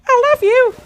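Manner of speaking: high, loud Scouse worm voice; Scouse worm impression. Donation reader doing the Scouse worm voice pack, high Scouse impression. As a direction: squeal it out in mock Scouse. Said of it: "my best impression right now".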